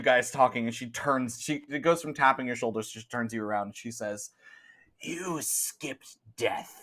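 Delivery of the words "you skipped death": slow, softer pronouncement; hint of a cryptic old woman; lightly voiced ominous old woman. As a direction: draw out a grave warning. Old woman delivers a warning.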